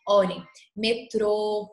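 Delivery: slow, drawn-out syllables for each word; careful word demo. Shown as a demonstration. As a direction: spell out the stressed vowels slowly. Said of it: "Eu não estou falando pra fora".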